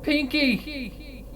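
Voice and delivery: high, far-off call for Pinky; desperate calling. Acted. Twilight calling for Pinkie in the nightmare, high and desperate. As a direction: cry out her name in despair. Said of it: "cry out her name".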